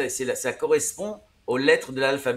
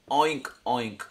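oink, oink said as a pig grunt; pig oink demo; 2 semitones lower than usual. Shown as a demonstration. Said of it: "Alors, en anglais". (imitation du cochon : oink, oink)

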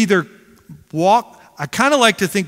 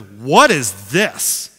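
put-on slow disgusted kid; 5 semitones lower, much slower than usual. Son voiced in story.

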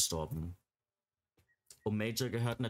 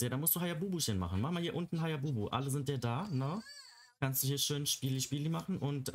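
put-on higher, quicker cooing baby talk; 4 semitones higher than usual. Gamer cooing at the tired Sim, higher baby talk. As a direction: soothe a grumpy toddler playfully.

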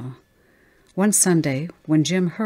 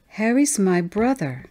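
put-on higher little-girl voice, matter-of-fact; lightly voiced young girl, sure of it; child declaring; 4 semitones higher than usual. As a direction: state it simply as a small child. Child answers who Harry is.

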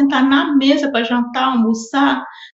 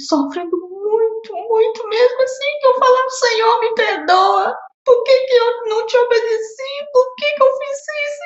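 real tears, pitch climbing much higher; crying, voice breaking; 10 semitones higher than usual. Real, not acted. Testifying to the church about her struggle, crying high. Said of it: "Eu tô chorando hoje".

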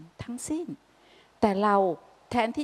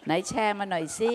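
playful gentle asking. Retold or imitated. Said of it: "ถูกไหมฮะ".

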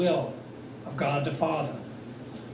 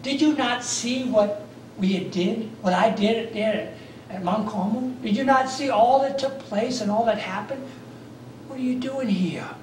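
pleading. Acted. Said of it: "Pleading with Elijah".

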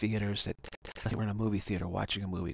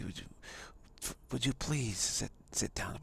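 coaxing plea; 5 dB quieter than usual. Retold or imitated. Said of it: "get close to you and say".

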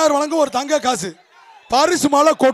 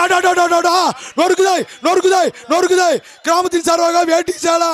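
excited commentary; 3 semitones higher than usual. Real, not acted. Jallikattu commentary, held shouting.

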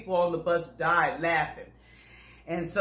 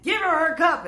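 "Give her her cup" said higher and louder, stressing "Give"; firmer repeat; 8 semitones higher, 4 dB louder than usual. Retold or imitated. Driver repeating the order to the passenger, firm and loud. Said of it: "that whole routine again".

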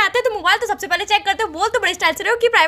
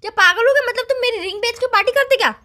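shocked; 6 semitones higher than usual. Acted. Shocked at selling ring.

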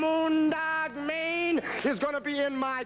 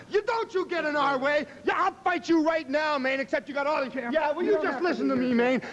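louder, heated trash talk; angry promo rant; 3 dB louder than usual. Acted. Piper firing back at Mayne, loud and heated. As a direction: snap back at the big mouth.

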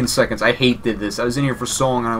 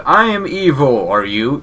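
Lord Regent voice; 3 semitones higher, slower than usual. Retold or imitated. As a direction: intone it like a pompous villain. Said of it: "Do now hear him, the Lord Regent".

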